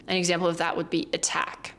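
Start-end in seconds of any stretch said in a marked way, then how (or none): 1.1-1.7 "attack" with a true, crisp T; regular T. Shown as a demonstration. Teacher showing the exception, "attack" with regular T. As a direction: keep the T in "attack" a real T. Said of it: "pronouncing the T as a regular T".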